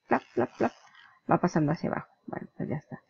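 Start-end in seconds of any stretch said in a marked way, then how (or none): 0.1-0.7 quick flap, flap, flap; imitated flip sound. Shown as a demonstration. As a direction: mimic the counter's cards flipping, a bit higher. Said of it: "¿Veis el flip?".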